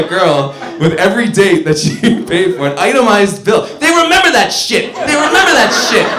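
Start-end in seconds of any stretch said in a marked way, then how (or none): 3.8-6.1 emphatic repeat. Real, not acted. Repeated punchline to audience.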